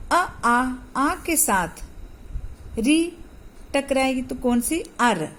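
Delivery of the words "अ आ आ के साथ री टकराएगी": drawn-out teaching. Shown as a demonstration. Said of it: "teacher drawls sound for class".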